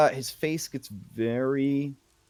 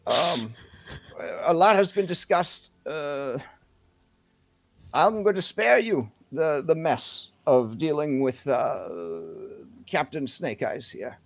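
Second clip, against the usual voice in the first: decisive town leader; 4 semitones higher than usual. Acted. Town leader pronounces on the pirate.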